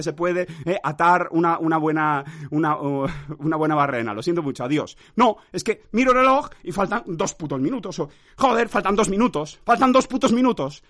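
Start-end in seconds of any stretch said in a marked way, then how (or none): 5.2-10.8 raised, annoyed complaint; exasperated. Real, not acted. To listeners, fuming that two minutes remain, annoyed and raised. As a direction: fume at the clock.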